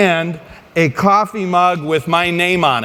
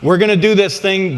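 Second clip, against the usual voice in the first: fight promoter. Retold or imitated. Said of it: "in promoter voice".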